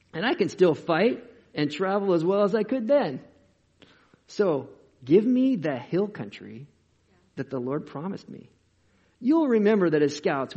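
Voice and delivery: lightly voiced old warrior, loud bursts; Caleb. Old scout asking Joshua for hill country, lightly put-on bold voice. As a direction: push each new sentence out high and loud. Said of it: "read this in this voice".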